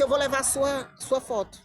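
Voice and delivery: a touch of anger, firmly declared; retold anger. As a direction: re-enact an indignant announcement. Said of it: "com raiva".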